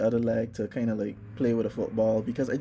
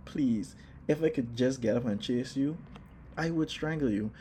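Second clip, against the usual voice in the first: much softer, pained half-joking threat; muttered threat; 5 dB quieter than usual. Retold or imitated. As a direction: growl it under your breath through the pain. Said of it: "And I'm just there like".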